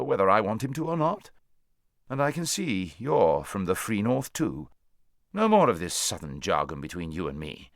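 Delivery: emphatic, proud horse voice; proud talking horse. Acted. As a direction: declare it firmly as a free horse. Horse proudly declares himself free Narnian.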